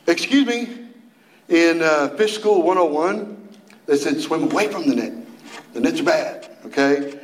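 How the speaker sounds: prissy little fish raising an objection; lightly voiced nerdy fish; fish objecting. Preacher voices a pedantic fish.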